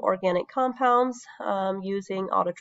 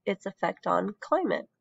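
speaking while sick with a cold; under the weather, voice worn from illness. Real, not acted. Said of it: "pardon my sick voice".

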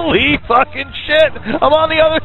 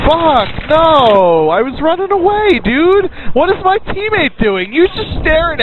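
raised, higher frustrated cry; angry yell; 4 semitones higher than usual. Real, not acted. Gamer knifed while his teammate watches, angry yell. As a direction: shout in outrage as you get caught.

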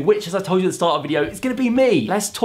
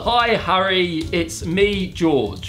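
slow, dragged-out words, sinking lower; typing aloud; 3 semitones lower, much slower than usual. Real, not acted. YouTuber types message to a singer's AI, slow dictation. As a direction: read it out word by word as you type.

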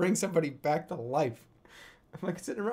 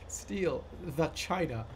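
slow, careful "steal the China"; each word of "steal the China" said slow and deliberate; 4 dB quieter than usual. Shown as a demonstration. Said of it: "Just saying it so deliberately".

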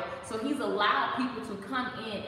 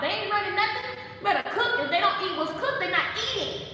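firm parental scolding; 8 semitones higher, 4 dB louder, faster than usual. Acted. Acted parental firmness about kids' meals.

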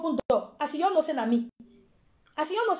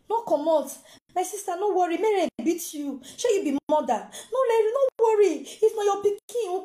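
imitated tearful begging, pitch jumping up on the appeals; acted plea, each abeg falling away; tearful pleading; 3 semitones higher than usual. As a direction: plead urgently as a retold crying mother. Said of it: "She dey cry".

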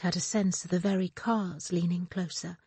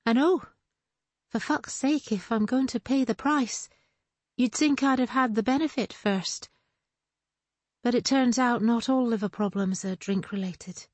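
higher, wry exasperation; exasperated; 5 semitones higher than usual. Acted. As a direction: vent it with a bitter laugh in the voice. Moira exasperated about her illness.

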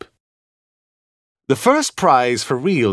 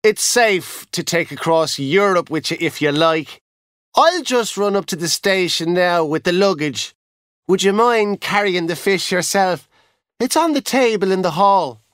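cheerful; 6 semitones higher than usual. Acted. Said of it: "he said cheerfully".

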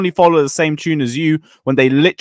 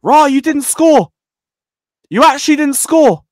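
mocking taunt; 9 semitones higher, 3 dB louder than usual. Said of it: "come back at full time like".

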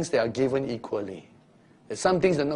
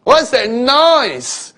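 high, loud, slow calling out; puzzled call; 11 semitones higher, 10 dB louder, much slower than usual. Acted. Disciple calling out over the noisy crowd, puzzled. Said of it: "He says".

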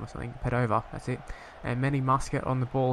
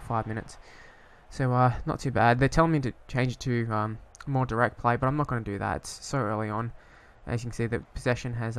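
usual speaking voice

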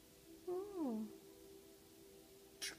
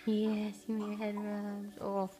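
tender pet talk; 5 semitones lower than usual. Real, not acted. Soothing bird during head rubs.

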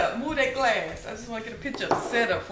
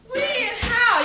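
surprised; 11 semitones higher, 7 dB louder than usual. Real, not acted. Amazed questions.

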